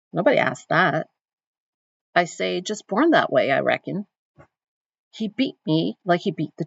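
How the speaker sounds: reading with a lightly attempted African American Vernacular accent; attempted Southern Black dialect. Teacher reading Celie's letter to students, in an attempted African American Vernacular accent. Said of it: "I'm trying to do the accent".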